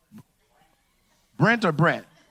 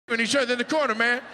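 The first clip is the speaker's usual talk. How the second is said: 'corner' pushed higher in a hammed-up alarmed plea; a scared patient tattling, voice raised; mock panicked patient; 5 semitones higher, much faster than usual. Patient begging before anesthesia.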